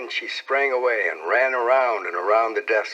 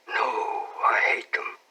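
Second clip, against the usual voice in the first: whispered; slower than usual. A narrator's reading. Becky's voice, unvoiced whisper.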